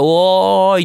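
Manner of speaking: the same hail, now moving in toward the mic; call coming closer. Shown as a demonstration. Showing listeners a call that approaches the mic. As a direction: call out while stepping up to the microphone. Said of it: "って言いながら近-、マイクに近づいただけ".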